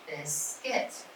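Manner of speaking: "Biscuit" said slowly in two clear parts, rising; syllables shown. Shown as a demonstration. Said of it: "It has two syllables".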